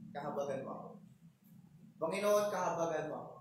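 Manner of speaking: beg, rising into a cry; crying out for mercy. Retold or imitated. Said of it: "At nagsisisigaw na siya".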